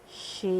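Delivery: "Chei" stretched out softly; single syllable shown. Shown as a demonstration. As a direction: hold "Chei" as a syllable by itself. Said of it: "Quantas sílabas tem".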